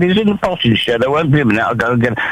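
lightly voiced posh old gent stalling a caller; old man voice. A scam caller told by a posh old man that he's in the potting shed. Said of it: "your old man voice".

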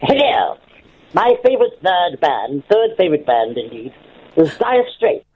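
like a forties recording; recording booth disc. Real, not acted. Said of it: "Could you talk terribly like that?".

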